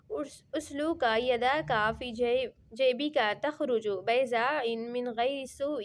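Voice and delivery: slow melodic Arabic recitation, long held vowels; Quran recitation. Acted. Teacher reciting the verse to his students, slow melodic chant. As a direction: chant the verse slowly and evenly, tilawat style.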